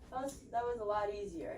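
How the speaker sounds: winded after exercise; out of breath. Real, not acted. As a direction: speak while still catching breath. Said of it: "you catch my breath for a few seconds".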